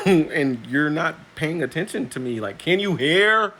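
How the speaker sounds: fed-up mock politeness; exasperated. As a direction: drag out can you hear in disbelief. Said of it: "when I was like".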